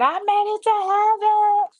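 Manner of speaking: high, far-reaching cry of joy; retold joyful scream. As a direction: shout it out like she finally arrived. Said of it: "when she started screaming".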